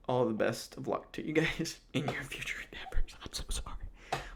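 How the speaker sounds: breathy, laughing well-wishes; laughing apology. Real, not acted. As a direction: try to say sorry while cracking up. Laughing through mock farewell to fired wrestlers.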